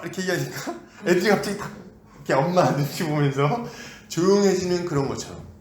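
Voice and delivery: ordinary delivery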